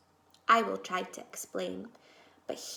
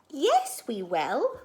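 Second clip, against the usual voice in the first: insistent yes; 2 semitones higher, 5 dB louder, slower than usual. Acted. Max insists they'll find him.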